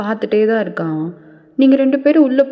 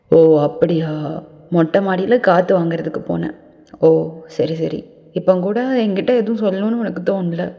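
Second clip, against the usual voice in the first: sarcastic man; 2 semitones lower than usual. Acted. Taeyong doubts her midnight story.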